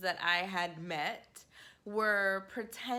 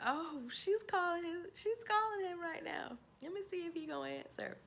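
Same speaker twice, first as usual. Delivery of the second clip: high, excited play-by-play; gleeful surprise; 9 semitones higher than usual. Retold or imitated. Listening in on the call, high and delighted. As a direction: narrate the drama with glee. Retold gleeful inner commentary.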